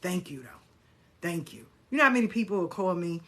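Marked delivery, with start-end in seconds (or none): 0.0-1.7 polite, gentle brush-off; kindly let-down. Shown as a demonstration. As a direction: turn them down kindly, softening to the end. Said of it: "you just kindly say".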